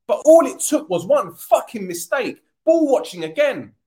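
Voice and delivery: loud, furious complaint; angry rant. Real, not acted. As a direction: vent at the mistake. Angry about the goal.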